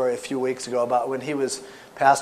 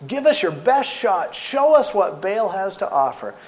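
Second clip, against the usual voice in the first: louder, higher taunting dare; bold challenge; 5 semitones higher, 5 dB louder than usual. Acted. Elijah daring the prophets of Baal, challenging. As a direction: call them out loudly.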